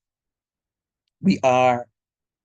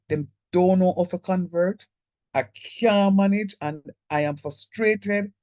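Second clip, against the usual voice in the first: frustrated; 6 semitones higher, 3 dB louder than usual. Retold or imitated. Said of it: "I was so frustrated".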